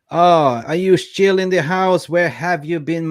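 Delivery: high, loud delighted surprise; surprised greeting. Real, not acted. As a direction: welcome back someone you missed. Spots a long-absent viewer.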